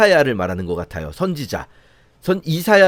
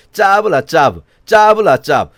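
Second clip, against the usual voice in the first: louder taunting nonsense chant; preacher voicing the leaders' taunt, louder and mocking; mocking singsong; 4 dB louder than usual. Shown as a demonstration. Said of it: "이게 비꼬는 말이에요".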